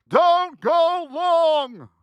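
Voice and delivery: slow, stretched-out warning yell; retold scream. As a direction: drag out the warning as if yelling it again. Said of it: "I was screaming".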